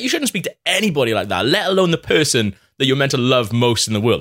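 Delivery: retold tipsy sermonising; mock-righteous drunken telling-off; preachy. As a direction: start high and lecture him, easing down. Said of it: "That's getting really preachy 'cause I was hammered".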